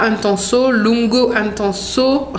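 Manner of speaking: Intenso and Lungo Intenso said slowly in a hammed-up Italian accent; mock Italian accent. Shown as a demonstration. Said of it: "mon accent est merdique". (faux accent italien maladroit sur Intenso)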